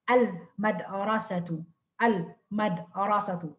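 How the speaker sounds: slow al-madrasatu with the l clearly heard; sounded lam. Shown as a demonstration. Teacher modelling a moon-letter example, sounded lam. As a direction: separate al, then madrasatu, slowly in al-madrasatu. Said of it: "example for the al-lam al-qamariya".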